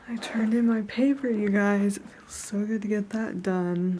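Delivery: talking through a retainer; wearing a retainer. Real, not acted. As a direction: retainer in, slightly off speech. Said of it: "I have my retainer in, so I'm talking weird".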